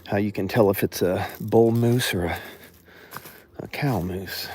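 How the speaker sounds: shaky voice while walking; jolted, unsteady delivery; on a bumpy road. Real, not acted. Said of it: "Sorry about the shaking".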